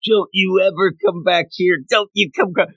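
mildly hammed-up angry telling-off; retold flip-out. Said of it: "she does flip out".

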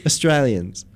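Australians opening on a tiny "uh"; Australians, first vowel barely there; reduced first vowel. Shown as a demonstration. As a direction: model Australians with an unstressed first syllable. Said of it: "There's no actual vowel sound".

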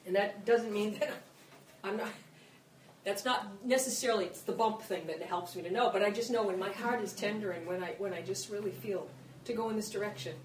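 emotional. Real, not acted. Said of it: "sorry I get emotional".

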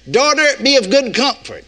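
lofty read ending with a laugh; mock misreading of scripture. Preacher piling up apostles in jest, lofty then laughing. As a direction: build the names up, then laugh through the end. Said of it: "No, that wouldn't be enough".

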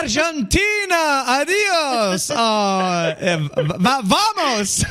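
put-on high, slow, playful Spanish accent; teasing Spanish accent, stretched out; mock Spanish accent. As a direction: ham up a Spanish accent for the caller. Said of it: "c'est un accent espagnol".

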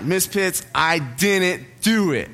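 slow, drawn-out mock protest; retold denial, each word leaned on; insistent protest. Student denying it to his teacher, slow insistence.

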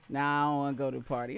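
deep, fast imitating the boyfriend; low mocking boyfriend voice. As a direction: drop low and rush it like him. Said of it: "he was like".

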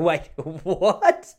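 high, very slow shocked protest; high stunned objection to a rude remark; shocked disbelief. Retold or imitated. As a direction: stretch out the outrage. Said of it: "And you go".

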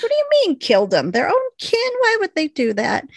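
Doc's disbelief, lightly voiced; mild shocked disbelief. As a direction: rattle off the questions in surprise.

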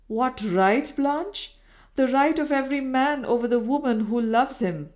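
a spurned lover insisting on his claim; possessive claim. Acted. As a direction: assert his right over her.

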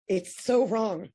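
real tears breaking through; crying. Real, not acted. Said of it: "I'm sorry I'm crying".

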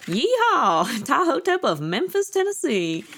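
high Southern yeehaw drawl. Pretend. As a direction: ham up a Tennessee cowboy. Joking Memphis Tennessee drawl.

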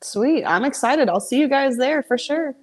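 talking while chewing; eating while talking; mouth full. Real, not acted. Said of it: "Are you eating nachos?".

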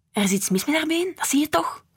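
a small sister pressing her point; little girl voice. A narrator's reading. Noor's child voice. (hoger meisjesstemmetje, aandringend)

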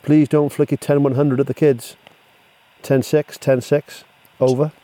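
CB radio talk. Acted. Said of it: "what we call the ten code".

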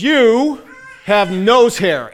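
wife noticing mid-labor, sudden astonished exclamation; surprised blurt. Retold or imitated. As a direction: blurt it out in amazement. Wife's sudden remark in labor.

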